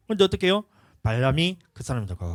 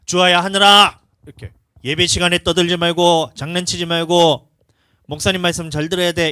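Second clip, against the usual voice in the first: parent calling out firm and loud; loud scolding call; 4 semitones higher, 11 dB louder than usual. Retold or imitated. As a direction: call the children sharply to order. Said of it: "이렇게 되는 거야".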